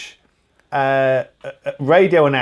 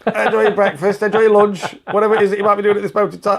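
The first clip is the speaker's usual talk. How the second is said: cheery; 5 semitones higher, faster than usual. Pretend. Cheery raised broadcast sign-off.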